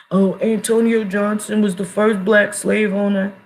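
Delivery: slow, sing-song mockery of a know-it-all; mocking quote. Mocking the folks who say it, slow and smug. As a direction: parrot the claim like it's gospel.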